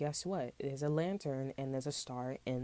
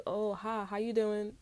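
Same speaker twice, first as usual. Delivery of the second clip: mock sweet greeting; 6 semitones higher, slower than usual. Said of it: "Shorty called me".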